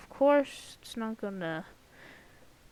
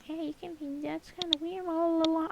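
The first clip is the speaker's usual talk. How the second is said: mocking commenter; 6 semitones higher than usual. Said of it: "don't comment, be like".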